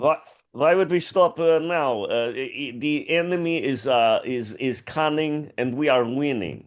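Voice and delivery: a light Russian accent; mild Russian accent, halting. Shown as a demonstration. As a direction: read the host's line in a Russian accent. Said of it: "with your accent".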